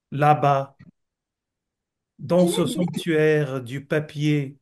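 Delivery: slow, measured poem reading with long pauses; poetry recitation. Acted. Poet reads own love poem to friends, slow recitation. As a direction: recite it unhurried, phrase by phrase.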